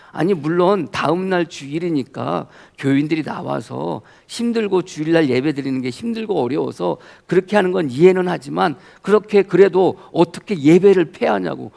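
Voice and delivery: concede, then protest, as the upset friend; retold angry protest. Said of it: "엄청 막 화를 내는 거예요".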